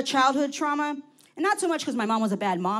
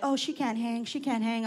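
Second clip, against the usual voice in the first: softer mocking imitation of young nieces; quietly tease, imitating their dismissive verdict; taunting call-out; 5 dB quieter than usual. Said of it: "started calling me out".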